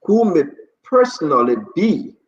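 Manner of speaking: slow, measured official proclamation; formal order reading. Real, not acted. Host reads executive order to radio listeners, formal and deliberate. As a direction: read out a legal order, phrase by phrase with pauses.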